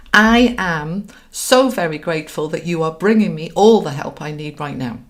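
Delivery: emphatic declaration, loud at the start; commanding. Shown as a demonstration. Coach commands the universe to help, grateful and commanding. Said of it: "now that's a command to the universe".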